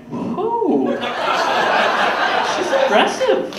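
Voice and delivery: jumpy, shocked at her friendliness; startled whoa. Retold or imitated. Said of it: "And I'm like".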